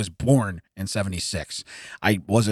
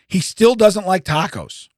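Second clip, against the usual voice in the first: incredulous; 9 semitones higher, 5 dB louder, slower than usual. Real, not acted. Outraged at the taco hater.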